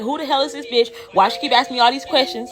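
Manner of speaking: annoyed inner monologue, acted out; irritated suspicion. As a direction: fume lightly in disbelief. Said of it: "I'm hot as fish grease".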